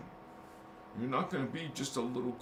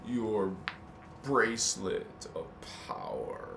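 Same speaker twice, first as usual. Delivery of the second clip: slow, drawn-out creature croon; ring-obsessed creature; 5 semitones lower, slower than usual. Acted. Speaker riffs on his ring of power, slow creature voice. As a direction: stretch each word out like a creature gloating over treasure. Mock-epic Gollum-style ring talk.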